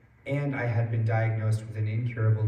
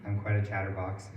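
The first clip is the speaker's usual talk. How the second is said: hoarse voice. Real, not acted. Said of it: "I lost my voice this morning somehow".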